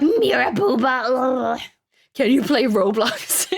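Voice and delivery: nagging child imitation; whiny kid voice. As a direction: pester like a little kid. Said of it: "Kids go like".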